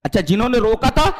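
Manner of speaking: ordinary talk, nothing marked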